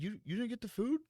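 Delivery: high, puzzled mock coworker voice; imitating coworker. Retelling the coworker's confused question, high mock voice. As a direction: play the confused friend, voice pushed up. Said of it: "He's like".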